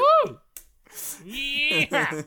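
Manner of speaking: loud, high whoop; cheering yell. Real, not acted. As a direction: whoop like at a rodeo.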